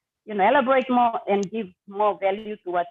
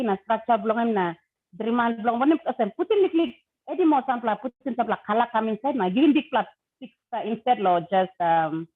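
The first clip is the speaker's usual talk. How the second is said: speaking Tok Pisin Pidgin. Real, not acted. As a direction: Papua New Guinea Pidgin. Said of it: "say something in, in Pidgin to our people first".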